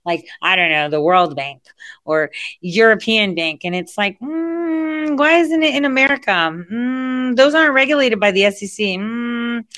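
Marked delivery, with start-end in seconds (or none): 4.2-9.6 mock suspicious musing. Mock skeptical inner questioning.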